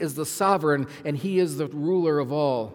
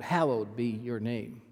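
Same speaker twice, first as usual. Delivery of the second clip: HALLOWED leads the phrase, said slowly; stress on HALLOWED; 4 semitones lower, 3 dB quieter, slower than usual. Shown as a demonstration. Preacher showing the usual reading, stress on HALLOWED. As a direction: lean on the word Hallowed, slow. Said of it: "the emphasis on the word hallowed".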